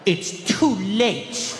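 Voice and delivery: slow, drawn-out mock reproach; kid's attitude. Forgotten kid punishing his mom, slow sulky attitude. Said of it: "give my mom unlimited attitude".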